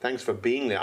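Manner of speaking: put-on American accent for a greeting; American-accented thank-you to the guests. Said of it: "talking in an American accent".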